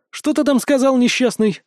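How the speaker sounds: high, tense challenge to an enemy; menacing, through the teeth. A narrator's reading. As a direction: throw it out with restrained contempt. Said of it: "процедил я".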